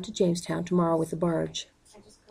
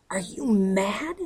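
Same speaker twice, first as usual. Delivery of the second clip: angry shout; much slower than usual. A narrator's reading. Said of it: "he shouts".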